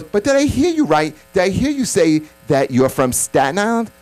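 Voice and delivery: imitating a stunned woman; mock disbelief. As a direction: act shocked at Staten Island.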